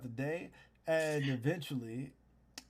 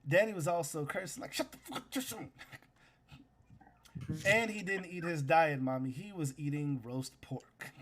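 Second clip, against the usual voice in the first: lightly voiced tattling little boy; a hint of a child snitching, whispery on the repeated curse; 2 semitones higher than usual. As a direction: tell on daddy to mommy. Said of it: "you hear the little boy says".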